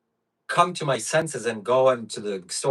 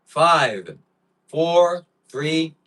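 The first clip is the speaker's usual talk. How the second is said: loud, rising countdown; excited countdown; 5 semitones higher, 6 dB louder, much slower than usual. Real, not acted. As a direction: count it down, hyped up. Countdown before eating sour candies.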